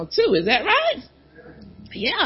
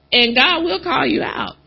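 usual speaking voice

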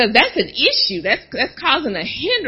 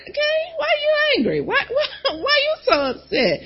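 voice of God. Acted. God calls Cain out.

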